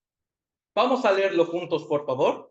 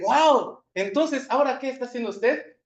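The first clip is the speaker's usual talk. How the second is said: higher, startled "Wow" then quick question; retold surprise; 6 semitones higher than usual. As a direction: replay the shock of hearing it, pitched up. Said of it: "Porque yo me sorprendí".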